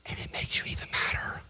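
low breathy whisper; whispered aside. Real, not acted. Pastor confiding to congregation, whispered. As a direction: let them in on it, hushed.

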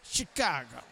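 low-pitched Minnesota Midwest twang; Minnesota Midwest accent. Shown as a demonstration. Speaker has students say it to neighbours, Minnesota Midwest accent. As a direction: model a Midwest accent, dropping well down in pitch. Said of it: "with your best Minnesota Midwest accent say".

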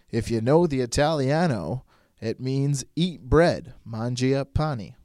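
slow, drawn-out commentator delivery; announcer impression. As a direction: savour each word like a sports commentator explaining a name. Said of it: "it's a announcer commentating".

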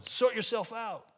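slow, dismissive quote; slow mock brush-off. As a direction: toss it off like a brush-off. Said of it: "much better than just going".

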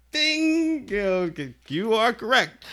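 high ringing "ding", then mock announcement; quiz-show host. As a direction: announce it like a winning answer. Mimics game-show bell and host.

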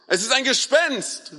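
narrated fearful exclamation; mild frightened cry. A narrator's reading. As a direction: read it as a startled shout, only half acted. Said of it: "und schrien vor Angst".

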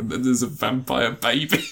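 slow mock exclaim of an interview line; imitating Pattinson. Retelling Pattinson's Twilight interview, slow mock exclaim. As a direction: play it like a giggly actor blurting it out. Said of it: "where he's like".

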